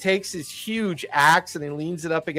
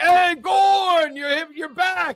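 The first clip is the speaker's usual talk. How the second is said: rowdy, excited, cheering crowd; 12 semitones higher than usual. Voicing a tavern crowd greeting a returning ogre: rowdy cheering crowd. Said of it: "you can hear the whole crowd go crazy".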